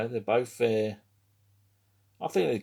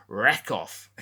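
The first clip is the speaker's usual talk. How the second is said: put-on punchy, louder Australian-accented send-off; Aussie slang put-on; 6 dB louder than usual. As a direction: toss it out like an Aussie insult. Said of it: "as the Aussies say".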